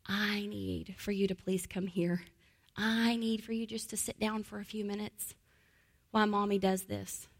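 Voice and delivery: put-on a parent gently asking a child; gentle request. Shown as a demonstration. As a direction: ask a child kindly, no pressure. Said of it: "just changing your verbiage to".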